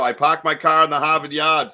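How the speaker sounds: put-on Boston accent. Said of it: "is that a Northeast accent I'm hearing".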